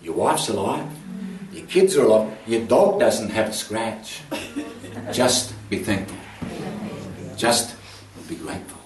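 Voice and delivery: low, measured words with long pauses; voice of God. Retold or imitated. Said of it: "I hear the voice of God say".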